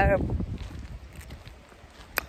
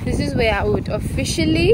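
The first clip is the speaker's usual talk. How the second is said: shouting over wind; 3 semitones higher, 6 dB louder than usual. Real, not acted. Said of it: "hear me over the wind".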